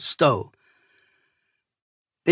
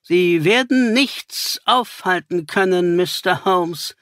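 a touch higher, cynical threat; cynical villain; 3 semitones higher than usual. Acted. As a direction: taunt Holmes coldly. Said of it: "kam es zynisch". (zynisch drohend, etwas höher)

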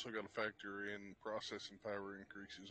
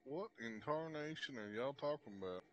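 put-on southern accent; 4 semitones higher than usual. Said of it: "Quit trying to do those southern accents".

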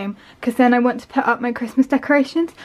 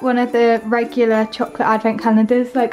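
breathless from running upstairs; out of breath; faster than usual. Real, not acted. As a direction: talk while catching breath. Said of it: "I'm out of breath".

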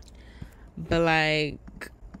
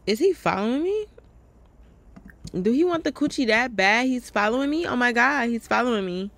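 higher, louder, alarmed questions; 4 semitones higher, 4 dB louder than usual. Real, not acted. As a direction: panic that someone is trailing you. Alarmed she is being followed.

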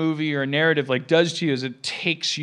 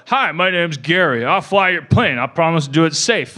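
lightly voiced steady pilot intro, a bit louder; a straight, reassuring safety-video pilot; calm airline pilot video; 7 dB louder than usual. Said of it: "have a person, like, on the video screen go".

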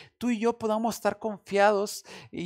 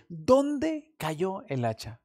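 calm question; much slower than usual. Retold or imitated. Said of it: "Él dice".

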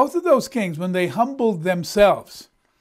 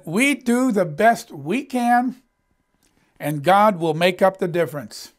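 quoting a preacher. Retold or imitated. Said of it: "he said".

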